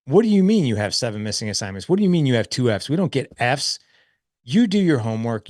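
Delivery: mock scolding. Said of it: "I just want to be like".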